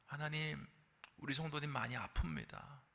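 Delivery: soft, murmured intercession; hushed prayer. Retold or imitated. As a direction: pray softly over the sick. Praying over a sick member.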